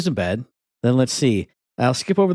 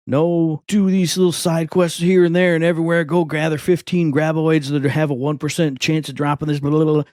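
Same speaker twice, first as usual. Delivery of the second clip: higher, run-on mocking list; mock tedious listing; 4 semitones higher than usual. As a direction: rattle off the chores dismissively. Mock listing of tedious side quests.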